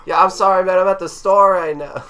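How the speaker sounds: high, loud pretend call from a busy store; shouting into speakerphone. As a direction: shout over a crowd into a distant phone. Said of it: "hold it, like, very far away".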